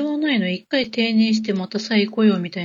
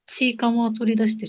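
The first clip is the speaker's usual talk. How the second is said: chewing while talking; mouth full. Real, not acted. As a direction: speak with food in the mouth. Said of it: "ちょっと今食べ、食べながら喋ってた". (もぐもぐしながら)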